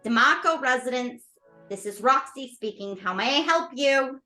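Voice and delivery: polite phone receptionist voice; customer service voice. Acted. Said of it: "It's her customer service voice".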